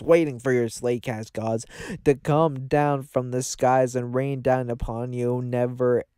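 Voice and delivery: pompous sermon, slowing on the big words; mock grand proclamation. Hosts addressing their audience, mock divine sermon. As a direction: preach like a self-made god.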